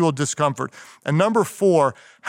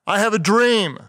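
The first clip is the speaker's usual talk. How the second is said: raised, ringing oratory; Martin Luther King; 7 semitones higher, 3 dB louder than usual. Retold or imitated. Quoting a famous speech to leaders, orator's proclamation. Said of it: "Martin Luther King, in his famous speech".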